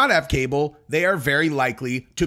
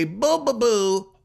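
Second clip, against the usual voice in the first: mock boo-hoo; 7 semitones higher, slower than usual. Mocking fake crying.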